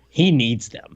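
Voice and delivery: conspiratorial whisper. Real, not acted. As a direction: lean in and whisper it. Joking aside about the villains.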